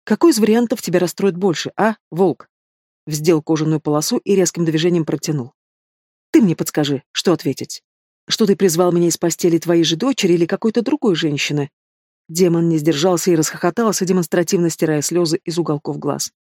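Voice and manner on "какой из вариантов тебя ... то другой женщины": mocking demon prince. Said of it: "продолжал насмехаться".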